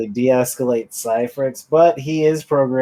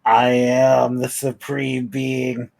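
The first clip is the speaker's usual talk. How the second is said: dark lord; 2 semitones higher, 3 dB louder than usual. Acted. Cat character boasts of ruling all.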